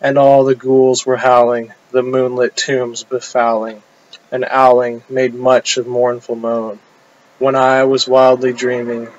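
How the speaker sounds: measured, chant-like delivery of rhymed verse; poem recitation. Acted. Poet reciting a demon dream poem to an audience, measured declamation. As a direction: declaim in short rhythmic phrases, pausing after each rhyme.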